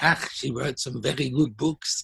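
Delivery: put-on French accent. Quoting what the speaker's mum always said about a prophetess, in a french accent. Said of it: "Mum always said in a French accent".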